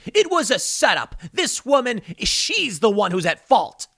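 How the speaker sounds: high, whiny, mocking excuse-making; mock Nancy Pelosi. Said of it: "What did Nancy Pelosi say".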